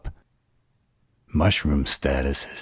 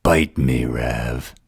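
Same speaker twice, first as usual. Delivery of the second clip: irritated retort; 3 dB louder, slower than usual. Acted. Snapping back at teasing Rav.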